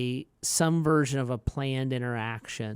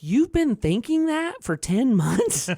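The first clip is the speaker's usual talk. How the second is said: high, louder, laughing through it; laughing disbelief; 10 semitones higher, 6 dB louder than usual. Retold or imitated. Dad laughing at his son's ten-month grudge.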